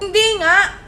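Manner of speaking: exasperated mom putting her foot down; firm mother's no. Acted. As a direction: shut the child down. Mother refusing child.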